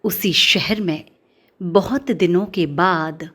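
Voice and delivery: slow, measured poetry reading; deliberate recital, lingering on the line ends; poem recitation. Acted. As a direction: recite the verse line by line, with pauses. Recites a poem before introducing it.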